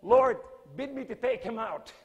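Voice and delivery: loud, high plea with a laugh; retold loud prayer cried out in a fight; crying out to God. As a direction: beg heaven for permission, half laughing. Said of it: "I start crying out to the Lord".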